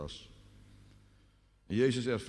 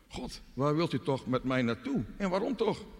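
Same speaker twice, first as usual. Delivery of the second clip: higher, anguished questioning of God; pleading question; 6 semitones higher than usual. Acted. Doubting believer asks God why, pleading. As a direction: plead for an answer, pitch rising.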